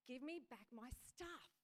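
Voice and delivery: slow, firm demand as Jesus; annoyed demand. Acted. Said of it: "He looked annoyed".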